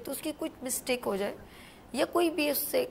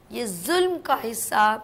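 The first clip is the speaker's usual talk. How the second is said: emphatic sermon-like admonition, swelling on key words; solemn warning; 5 dB louder than usual. Real, not acted. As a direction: warn them of God's reckoning, weighting each phrase.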